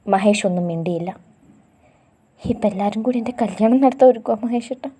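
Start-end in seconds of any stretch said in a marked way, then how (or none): 2.4-4.9 put-on sobbing girl. A narrator's reading. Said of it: "ചിപ്പി ഒന്ന് ഏങ്ങിപ്പോയി".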